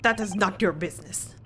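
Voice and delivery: curt mock Russian sailor; bad Russian accent. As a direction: shut them down in a put-on Russian accent. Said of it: "my very bad Russian attempt".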